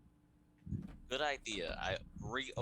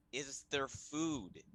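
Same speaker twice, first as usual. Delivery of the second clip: mild yell; 4 semitones higher, slower than usual. Acted. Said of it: "I slightly yell out loud".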